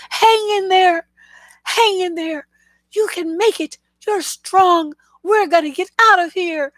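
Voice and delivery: high, loud, tearful pleading to a dying friend; frantic comrade urging a dying soldier; pleading buddy. Retold or imitated. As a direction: beg him to hang on, voice cracking high.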